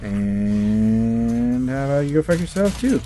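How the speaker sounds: slow, drawn-out rising insult; mock-polite cursing. Real, not acted. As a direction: stretch the insult out slowly. Cursing at the game.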